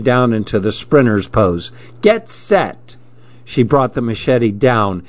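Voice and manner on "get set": called out. Acted. Starter calling the race.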